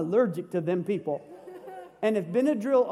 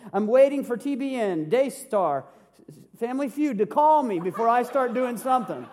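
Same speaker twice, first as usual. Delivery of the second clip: louder, self-important complaining about waiting for bigger things; mock excuse-maker; 5 dB louder than usual. Shown as a demonstration. Pastor mimics a lazy believer for the church, in a louder mocking tone. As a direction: ham up a churchgoer too grand for small jobs. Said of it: "What am I modeling?".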